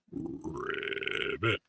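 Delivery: low, breathy whispered ribbit; a half-hearted frog call; weak frog impression. Cohost tries her own frog, soft breathy ribbit. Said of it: "mine is just not that great".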